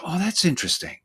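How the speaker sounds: lightly voiced eager curiosity; curious therapist. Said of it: "They go".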